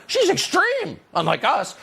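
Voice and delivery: very high mocking squeal; hammed-up high-pitched alarm; mock scream. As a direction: mimic panicked critics in a high voice. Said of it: "Scream the people who support".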